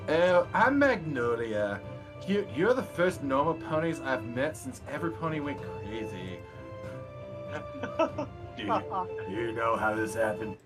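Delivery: put-on ditzy valley girl pony; airy, vapid valley girl voice. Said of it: "I get to work this voice".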